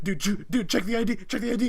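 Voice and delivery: hammed-up party dudes shouting; mock frat guys. Mocking the frat guys demanding her ID, loud and high. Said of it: "And everyone goes".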